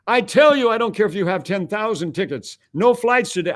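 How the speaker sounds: high-pitched mock exasperation; exasperated refusal. Operator turning away a man with a ticket, exasperated and high. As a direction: refuse firmly with the pitch pushed up.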